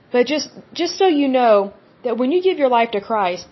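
talking through hiccups; hiccuping between words. Real, not acted. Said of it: "had the hiccups a little bit".

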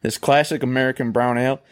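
ad read. Acted. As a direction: sell the beer like a TV ad. Reads beer ad copy.

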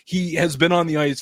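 high, loud exasperated rant. Real, not acted. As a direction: vent like a fed-up fan.

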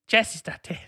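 jokey jazz musician voice pitched well up; mimicking the jazzman saying jazz is not dead; a jazz musician impression. Host doing a quick jazz musician impression for the quiz, pitched high. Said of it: "I'm not doing any more impressions".

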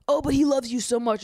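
high-pitched, put-on pleading; mock gushing. Boys running defense for Will to Jesse, mock gushing. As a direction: parody the boys' syrupy defense.

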